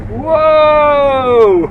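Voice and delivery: loud, high real shout of delight; thrilled whoa. Real, not acted. Flooring the Tesla, real excited whoa. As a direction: let the speed throw a whoa out of you. Feels car accelerate hard.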